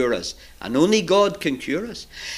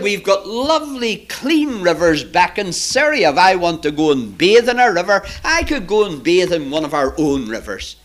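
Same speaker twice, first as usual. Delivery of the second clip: storyteller's mildly affronted protest; a touch of proud outrage; indignant. Acted. Naaman boasts of Syria's rivers, indignant. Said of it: "Naaman was absolutely furious".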